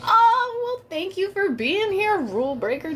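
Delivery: high sing-song cabin greeting; flight attendant. Acted. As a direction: welcome them aboard brightly. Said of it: "it sounded like a flight attendant".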